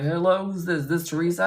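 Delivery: a hint of a Southern guy; Southern accent. Opposing lawyer answering the conference line, lightly voiced Southern accent. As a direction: answer the phone, lightly imitating a Southern man. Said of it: "and he's a Southern guy".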